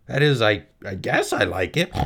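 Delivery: unsure piglet voice; stammering little pig; Wilbur the pig. Acted. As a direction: hesitate like a shy young pig. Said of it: "said Wilbur".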